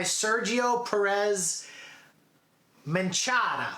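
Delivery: slight Italian-accented name; a touch of Italian accent on the name. Real, not acted. Reading an actor's name, slight Italian accent. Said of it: "I said that with an Italian accent".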